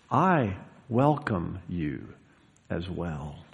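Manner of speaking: slow, soft and low; gentle welcome. Acted. Preacher welcomes a brother or sister, gently and sincerely. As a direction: receive them quietly, voice settling down.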